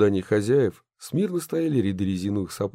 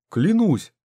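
exclaimed; 9 semitones higher, 6 dB louder than usual. A narrator's reading. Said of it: "воскликнул Мощин".

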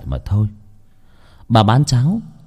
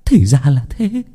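gloating discovery; 8 semitones higher, 4 dB louder than usual. A narrator's reading. Witch finding the boy she sought, excited gloating. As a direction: crow over the find, voice rising higher. Villain realises she found the child.

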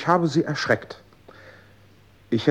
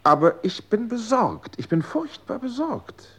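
gespielte Sorge; 10 semitones higher than usual. Acted.

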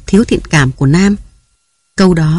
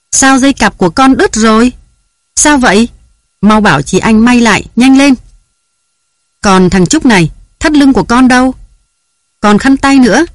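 high, loud harried mother; yelling at the kids while they get ready for school; flustered mother's shouting; scolding shout; 5 semitones higher, 3 dB louder than usual. A narrator's reading. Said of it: "với tiếng la hét của nàng".

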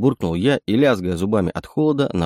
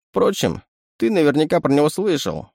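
much higher raccoon voice on Впрочем; sly chittering raccoon; 8 semitones higher than usual. Acted. Raccoon voice take of word.

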